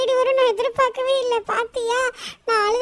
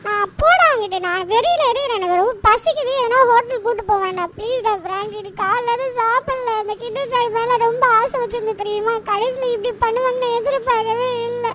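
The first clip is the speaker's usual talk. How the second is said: acted crying. Hungry boy complaining to his friend about the sweet, acted crying. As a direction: whine self-pityingly and end in a mock wail. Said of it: "எதுக்கு Shinchan அழுகுறா".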